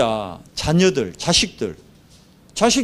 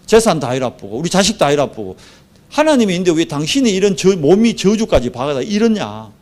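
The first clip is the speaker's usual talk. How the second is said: retold scolding, pressing and insistent; reproachful wife; 2 semitones higher than usual. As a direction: berate a husband in mock exasperation. Wife berating Job, retold. (남편을 몰아세우는 아내 흉내)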